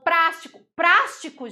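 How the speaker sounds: hammed-up prástico; mock wrong plástico. Shown as a demonstration. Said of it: "isenção".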